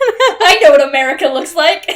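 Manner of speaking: hammed-up pompous author through a laugh; J K Rowling. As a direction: puff up like a know-it-all author. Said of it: "What is she, J K Rowling?".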